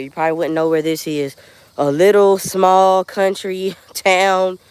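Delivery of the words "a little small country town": laughing slowly. Real, not acted. Laughs about her small town.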